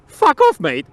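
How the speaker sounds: loud, high-pitched snap; dismissive outburst. Acted. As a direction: shout the pushy guy away. Acted rebuff to rude stranger.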